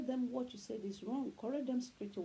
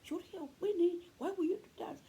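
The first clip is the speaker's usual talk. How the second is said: put-on higher, louder scolding yell at the kids; shouting parent; 8 semitones higher, 3 dB louder than usual. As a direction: shout at the children the way parents shouldn't. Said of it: "It's different from".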